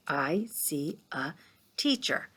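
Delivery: whispering the words to herself. Shown as a demonstration. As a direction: breathe it out as a private read-through. Teacher whispers while reading to herself.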